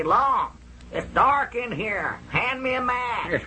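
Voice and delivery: spooky trunk voice. Retold or imitated. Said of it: "Awfully sounding voice I ever heard".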